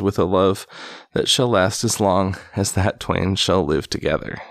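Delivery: measured, emphatic read-aloud storytelling; projected storybook reading; story narration. A narrator's reading. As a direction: read an old tale aloud with relish. Reads an old tale aloud.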